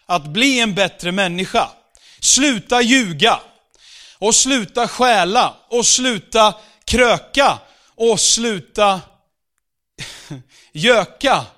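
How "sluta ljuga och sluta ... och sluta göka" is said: mock moralizing. Mocking moralizing church demands.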